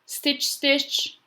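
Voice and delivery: high-pitched, separate stitches; storybook sound words. Acted. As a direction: pop each stitch up high. Storybook noise words acted out.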